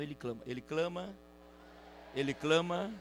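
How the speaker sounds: soft, low, rising at each end; low, insistent murmur; hushed repetition. Acted. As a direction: keep repeating it quietly, with waits between. Keeps repeating the unanswered cry.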